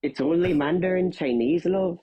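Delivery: Belfast lilt, lines rising like questions; a light Belfast IRA man, selling Mandarin lessons; Northern Irish accent. Acted. IRA man urging his cell toward Mandarin, Belfast accent. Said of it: "How's my North Irish accent".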